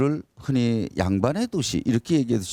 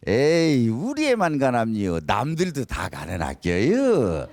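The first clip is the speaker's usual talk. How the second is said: humble Chungcheong dialect. Retold or imitated. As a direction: brush off the praise in Chungcheong dialect. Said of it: "충청도 사람들은". (충청도 사투리로 겸손하게)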